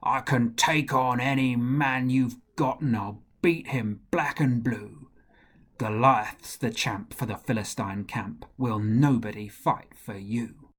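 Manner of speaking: a lightly voiced boastful giant; Goliath's boastful song. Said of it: "he smiled as he sang his song".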